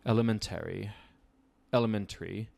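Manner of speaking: elementary in a mock posh British accent. Shown as a demonstration. Teacher jokingly saying elementary in a British accent. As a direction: say elementary like a pompous Brit. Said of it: "How do I say that with a British accent?".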